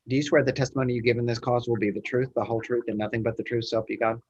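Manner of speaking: fast, rattled-off oath; rote court oath. Real, not acted. Judge swearing in a witness.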